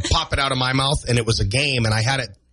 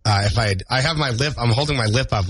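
talking with the upper lip held up. Real, not acted. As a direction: hold your lip up while talking. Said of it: "which is why I'm talking like this".

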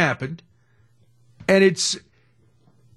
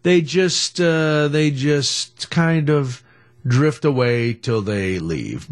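quoting people; much slower than usual. Retold or imitated. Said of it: "where people say".

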